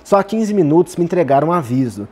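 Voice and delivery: lightly performed angry retort; retold anger. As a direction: snap back as an offended student, understated. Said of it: "e ele já com bastante raiva".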